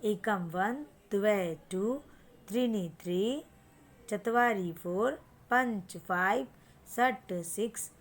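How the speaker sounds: slow, sing-song count with a rise on each Sanskrit number; teacher's counting chant; counting drill. Shown as a demonstration. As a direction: chant the numbers so the child can copy. Last repeat of the drill.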